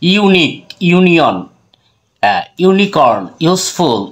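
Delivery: ইউনিক, ইউনিয়ন, ইউনিকর্ন, ইউজফুল slowly, each opening on a drawn "you"; "you" sound shown. Shown as a demonstration. Teacher listing examples for viewers, ইউনিক and the rest slowly with clear "you". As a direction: stretch the "you" starting ইউনিক and each word after. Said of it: "ইউ এর উচ্চারণ ইউ এর মতো হচ্ছে".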